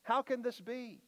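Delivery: lightly voiced baffled Nicodemus; bewildered Nicodemus. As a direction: throw up your hands in mock confusion. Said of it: "throws up his hands and says".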